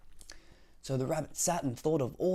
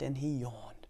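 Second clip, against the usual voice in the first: whispered; 2 semitones lower, slower than usual. Acted. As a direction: whisper the repeat. Repeat of line 1, whispered.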